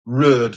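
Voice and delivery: "Road" pronounced "rerd", Hull accent; Hull accent vowel. Shown as a demonstration. Demonstrating Hull accent to viewers, "Road" as "rerd". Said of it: "Spelled R E R D".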